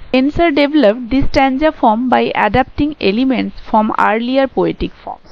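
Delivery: reading notes aloud very slowly, word by word; slow, careful read-aloud of lecture notes; slow dictation reading. Shown as a demonstration. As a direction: dictate it slowly so students can write it down. Teacher reads English notes aloud.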